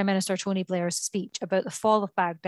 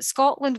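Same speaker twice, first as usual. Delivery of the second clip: Scotland pitched high and louder; indignant stress on Scotland; 6 semitones higher, 4 dB louder than usual. Real, not acted. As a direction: lean hard on Scotland. Stressing an unfair channel split.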